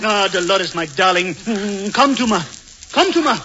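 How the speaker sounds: hammy matinee-idol crooning; Walter Pidgeon. Pretend. Alan woos Dolores in mock Walter Pidgeon style. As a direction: purr like a film lover. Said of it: "you're just like Walter Pidgeon".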